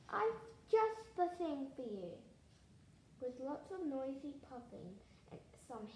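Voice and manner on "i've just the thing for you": loud, high storybook exclamation; excited cry. A narrator's reading. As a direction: cry it out with delight, voice raised. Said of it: "Alice cried".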